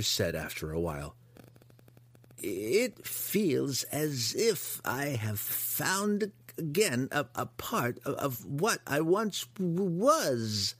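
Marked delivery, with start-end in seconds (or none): 2.4-10.8 high, slow wistful monster stammer; grotesque monster voice. Acted. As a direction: trail through the memory. Hookar reflecting on its past.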